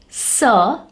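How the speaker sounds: C said as a hissed s with a short schwa, "sir"; soft C sound. Shown as a demonstration. Teacher demonstrating letter C's soft sound, soft s. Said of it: "has a soft sound".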